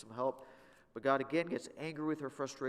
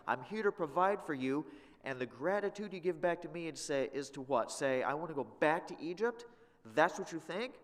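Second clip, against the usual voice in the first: raised, exasperated scolding; angry God; 4 semitones higher, 5 dB louder than usual. Pretend. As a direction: scold ungrateful people as God. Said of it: "God said".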